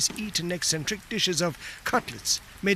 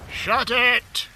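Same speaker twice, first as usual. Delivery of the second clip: high, louder snap to shut him up; bellowed; 6 semitones higher, 5 dB louder than usual. Acted. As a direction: bark it while taking aim. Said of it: "the other soldier bellowed".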